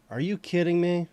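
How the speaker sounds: loud, high disbelief; exasperated shout. Real, not acted. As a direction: yell at yourself in disbelief. Exasperated at own mistake.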